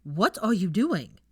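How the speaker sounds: out of breath from running; panting. Acted. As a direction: gasp it out between breaths.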